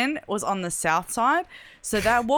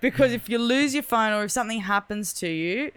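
louder, laughing through it; laughing advice; 4 semitones higher, 3 dB louder than usual. Real, not acted. She advises listeners about emergency contacts, laughing. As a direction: chuckle while giving the tip.

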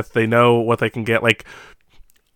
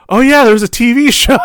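high, loud mock discovery with a laugh; retold surprised realization; 12 semitones higher, 7 dB louder than usual. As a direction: exclaim it as a sudden comic realization.

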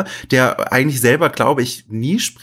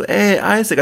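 higher, faint and frail voice; weak voice; 6 semitones higher than usual. Retold or imitated. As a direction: call out weakly like someone badly hurt. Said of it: "also mit total schwacher Stimme".

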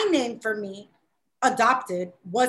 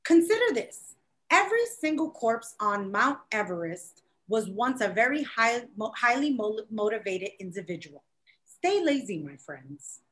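reading aloud; 4 semitones lower, 4 dB quieter than usual. Real, not acted. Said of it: "and it says".

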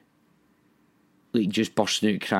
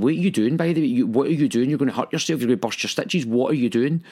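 higher, insistent mock scolding; lightly voiced partner fretting in a run-on rush; imitated alarmed partner; 4 semitones higher than usual. Partner finding him on the floor, imitated scolding.

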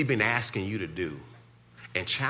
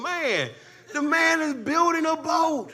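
much higher, louder fervent preaching; preaching at full force; 9 dB louder than usual. Acted. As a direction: whip the congregation up.

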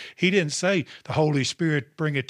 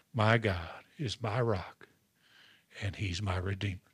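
tender; 3 semitones lower, 3 dB quieter than usual. Real, not acted. Closing quoted confession.

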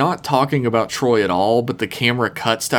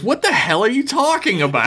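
laughing Riker impression; 11 semitones higher than usual. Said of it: "And Riker goes".

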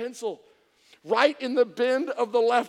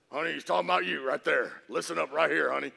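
nudging husband; 8 semitones lower, faster than usual. Acted. Voices husband nudging his wife.

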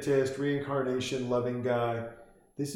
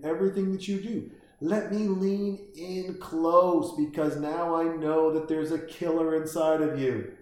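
higher-pitched, tentative doctor imitation; mock terrified; 4 semitones higher than usual. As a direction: play a nervously fascinated doctor coaxing a killer. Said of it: "this guy is just terrified".

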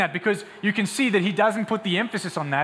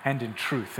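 lower, measured, earnest assurance; gentle Jesus; 4 semitones lower, 4 dB quieter than usual. Acted. Preacher as Jesus telling the woman the time is here, gently. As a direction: bring it down to an intimate, sincere promise. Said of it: "He says".

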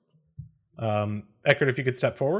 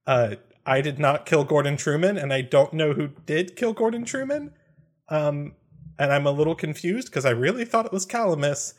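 higher-pitched, startled honesty; flustered; 4 semitones higher than usual. Acted. Compelled confession to a would-be dinner date, flustered. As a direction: blurt it out like a deer in headlights. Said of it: "like a deer in the headlights".

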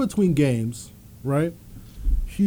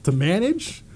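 high, scoffing mock incredulity; mocking disbelief; 10 semitones higher, faster than usual. Player scoffs at the coach recruiting the kid, high and mocking. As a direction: sneer at the idea, pitched way up. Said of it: "I'm like".

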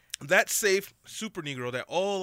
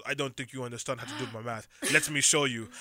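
amateur attempt at an Eastern European accent; poor Eastern European accent; 3 semitones lower than usual. Mover correcting the customer's math, poor Eastern European accent. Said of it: "my poor attempt at an Eastern European accent".

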